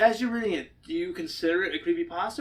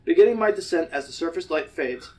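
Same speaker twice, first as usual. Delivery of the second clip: measured first-person story reading; steady, deliberate narrator; story narration. A narrator's reading. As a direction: read it aloud as a suspenseful tale. Reads the story aloud.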